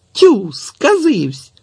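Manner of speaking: high, loud, very slow exclamation; drawn-out startled brush-off. A narrator's reading. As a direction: Tetiana waving the boy off, high and loud. Tetiana fending off the boy.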